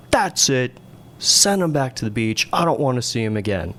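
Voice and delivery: a hint of an irritated boss ending it; fed-up dismissal. Air boss sends the student pilot back to the beach, mildly imitated anger.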